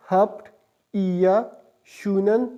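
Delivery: slow, careful हफ्ट या शूनन; German pronunciation demo. Shown as a demonstration. Teacher reads the whole phrase to students, slow and careful. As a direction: draw out शूनन slowly. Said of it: "इस तरह pronounce होगा".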